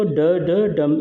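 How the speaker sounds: ड, ड short, then stressed डम; two quick ड beats landing on डम; anapaest beat. Shown as a demonstration. Teacher showing the pattern to students, stress on final डम. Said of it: "इसका जो है ये रहता है पैटर्न".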